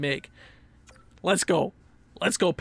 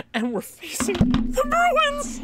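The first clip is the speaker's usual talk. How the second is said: mock dread; slower than usual. Real, not acted. Dreaded playoff opponent.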